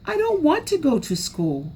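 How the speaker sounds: put-on high, pleading child's whine; crying child. A narrator's reading. Small raccoon crying to his mother, high whiny plea. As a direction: beg not to go, near tears. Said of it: "and cried".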